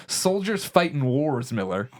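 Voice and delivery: slow, deadpan, eyes on the TV; deadpan tough guy. Retold or imitated. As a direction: say it like a stern old soldier. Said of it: "just goes".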